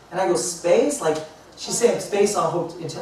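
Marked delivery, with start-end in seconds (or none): 0.3-1.0 higher, questioning echo, retold; puzzled surprise. Speaker echoes travel agent who books space, puzzled surprise. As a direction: act out baffled disbelief.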